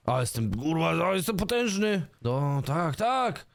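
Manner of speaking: high, hammed-up bragging; mock boast. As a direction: puff yourself up jokingly. Boasting in new boots. (żartobliwa przechwałka, wysoko)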